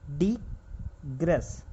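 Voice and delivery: डिग्रेस stretched out very slowly while writing; slow drawn-out word. Shown as a demonstration. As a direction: drag डिग्रेस out as you trace it. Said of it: "ये word है डिग्रेस". (डिग्रेस को बहुत धीरे खींचकर बोलना)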